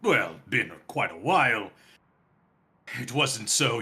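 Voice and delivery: lightly voiced old dragon; halting, pondering dragon reminiscence; ancient dragon. Dragon recalling the citadel from long ago, halting and lightly voiced.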